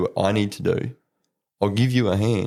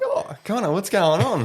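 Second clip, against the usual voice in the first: imitating the teacher; 10 semitones higher than usual. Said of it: "And you'd be like".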